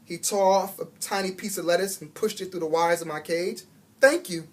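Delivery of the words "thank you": squeaky. A narrator's reading. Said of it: "I squeaked".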